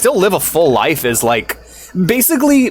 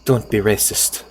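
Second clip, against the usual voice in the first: put-on a slow, softer Garnet accent; lightly put-on Garnet accent, said slow; 4 semitones lower, 5 dB quieter than usual. Streamer quoting Garnet's line to chat, in her accent. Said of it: "I always give her that accent".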